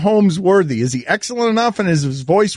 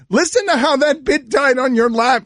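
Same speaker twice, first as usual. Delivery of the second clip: exasperated; 6 semitones higher than usual. Real, not acted. Scolding producer for bit that flopped.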